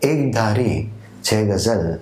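slow, measured verse with lilting, drawn-out phrase ends; ghazal recitation. Acted. Poet presenting his own ghazal to literature lovers, measured recitation. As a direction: recite it like a mushaira poet, letting key words swell and fall.

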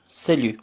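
Salü said as sely, no final t; Salü with a rounded ü and silent t; French salut. Shown as a demonstration. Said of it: "Kelimenin kökü aslında salüdür".

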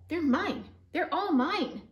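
high, loud, possessive scream. Acted. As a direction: yell it like a greedy bug. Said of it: "screamed the grouchy ladybug".

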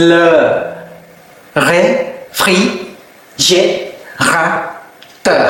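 réfrigérateur very slowly, each syllable apart. Shown as a demonstration. Teacher helps learners with a hard word, reading slowly. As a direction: spell out réfrigérateur by sound with long pauses. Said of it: "ลองอ่านช้าๆนะคะ".

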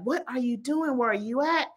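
a touch of indignant disbelief; fed-up demand. Retold or imitated. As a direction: question God in mock frustration. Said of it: "he's just, like, forsaking God".

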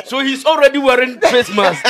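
talking through laughter; amused laughter. Real, not acted. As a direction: let real laughter break into the words. Co-host laughing at mask joke.

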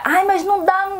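high-pitched imitation of an objection; mock protest. Seamstress mimicking a reply about a delivery deadline, mock protest.

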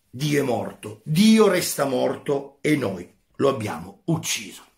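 a teacher reading a philosophy passage aloud with feeling; dramatic reading. Acted. Teacher reading Nietzsche's parable to students, dramatic read. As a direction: read it to the class like a parable, building tension.

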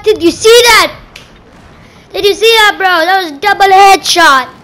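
real gamer excitement; excited bragging. Real, not acted. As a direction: show off the kill to a buddy, still buzzing. Still thrilled by double headshot.

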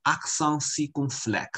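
"accent circumflex" pronounced the French way; teacher modelling French "accent circumflex"; French pronunciation demo. Shown as a demonstration. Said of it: "它的法语的念法叫做".

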